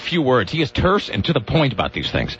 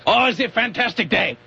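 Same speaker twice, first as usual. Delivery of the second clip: higher-pitched, badly faked Romanian accent; mock Romanian accent; 6 semitones higher than usual. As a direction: guess wildly at a Romanian accent. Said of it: "know what a Romanian accent sounds like".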